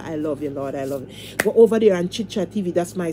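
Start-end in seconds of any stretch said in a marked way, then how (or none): 0.0-1.4 soft, low murmur to the Lord; quiet prayer. Real, not acted. Speaking tenderly to the Lord, soft and low. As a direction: whisper your love to God.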